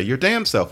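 your damn self with the weight on damn and a fall after it; damn stressed, self falling away. Shown as a demonstration. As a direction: punch damn, let self drop. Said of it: "with that accent pattern".

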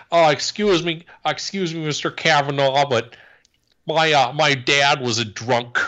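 high, mocking falsetto imitation. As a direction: mimic her in a high simpering voice. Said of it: "he was like".

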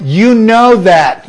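"You know that" slow with a falling tone on "know"; "You know that" drawn out, "know" falling; condescending stress. Shown as a demonstration. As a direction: lean slowly on "know" in "You know that" as a put-down. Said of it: "you're saying, "You're stupid".

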